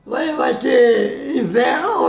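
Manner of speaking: slow, drawn-out shout of prophecy; prophetic shout. Real, not acted. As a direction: proclaim it slowly, calling out.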